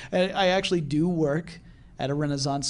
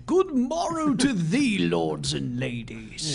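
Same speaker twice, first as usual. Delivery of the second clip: Renaissance greeting; 3 semitones higher, slower than usual. Acted. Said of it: "I guess I should say".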